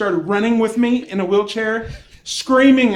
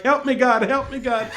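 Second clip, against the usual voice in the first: imitated plea for help, barely raised; half-hearted imitation of a cry to God; mild mock plea; 3 semitones higher than usual. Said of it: "She starts screaming in Spanish as she's going".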